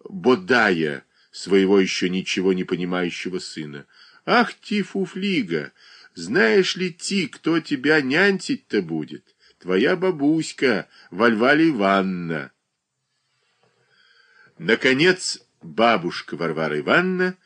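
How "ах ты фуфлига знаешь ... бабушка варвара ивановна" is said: put-on high, slow lisping baby talk to a child. A narrator's reading. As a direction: coo at the little son with a burr. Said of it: "картавым голосом говорил".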